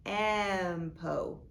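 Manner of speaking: "Tempo" with the t split off and "em" stretched; "Tempo" as t... emmm-po; sounded out. Shown as a demonstration. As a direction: stretch the short vowel in "Tempo". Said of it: "Look how the vowel sounds".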